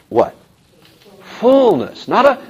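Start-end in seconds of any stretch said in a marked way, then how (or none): 1.2-2.1 Fullness, much higher and punched; Fullness, called out high for the class; stress on fullness. Shown as a demonstration. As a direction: lean hard on Fullness as the key word. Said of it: "that word fullness is crucial".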